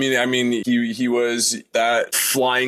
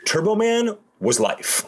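excited; 10 semitones higher than usual. Real, not acted. Fan declaring love.

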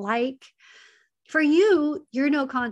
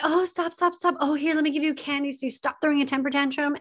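anxious parent; 3 semitones higher, faster than usual. Retold or imitated. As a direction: hurry to calm a screaming child, half-faked panic. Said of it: "Do you get all up anxiety".

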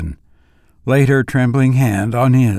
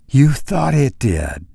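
put-on gently soothing old lady; lightly voiced soothing old woman. A narrator's reading. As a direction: soothe him like a doting wife. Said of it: "said the old lady soothingly".

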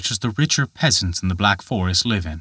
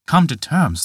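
put-on higher, puzzled young voice echoing the phrase; a young man repeating words he can't yet grasp; Peter musing; 4 semitones higher than usual. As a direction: turn the giant's words over in wonder. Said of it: "thought Peter".

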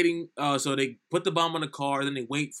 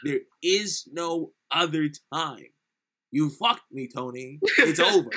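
louder, slow, heavy warning; mock stern boss; 5 dB louder, slower than usual. Retelling Sosa on the phone to Tony, mock stern. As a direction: lay down the final word like the boss. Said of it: "No, Tony".

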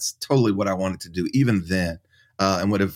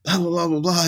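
retold upset rant, higher pitched; mildly imitated upset; 8 semitones higher than usual. Husband retells wife's call about the verdict, mock upset. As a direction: imitate an upset caller running on, without extra volume. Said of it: "very upset".

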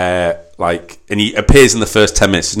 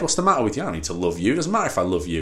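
softer, cold menacing father's put-down; cold harsh father; 4 dB quieter, faster than usual. Retold or imitated. Stern dad rejecting his son's plea, cold and cutting. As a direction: tear the kid apart quietly. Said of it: "he just essentially rips the kid apart".

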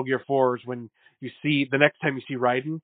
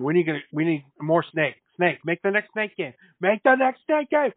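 mock whiny demand; 4 semitones higher than usual. Mocking fans demanding Snake.

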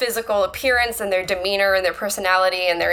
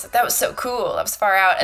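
hippie voice. Retold or imitated. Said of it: "like, a hippie voice".

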